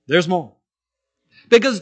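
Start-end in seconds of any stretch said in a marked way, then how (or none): 0.0-0.5 infomercial pitch. Retold or imitated. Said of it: "as the late night infomercials say".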